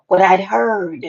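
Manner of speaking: gossip whisper. Real, not acted. Teasing gossip, drops to whisper.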